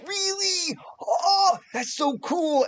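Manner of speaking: very high, squealing delight; amazed kid. Acted. Boy thrilled by the adventurer, very high and squealing. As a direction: squeal with wonder.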